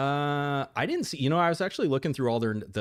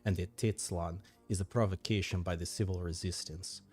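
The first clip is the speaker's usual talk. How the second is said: briefing narration; 2 semitones lower, 4 dB quieter than usual. Acted. Advisor briefs the boss on dwindling supplies, narration. Reads game briefing aloud.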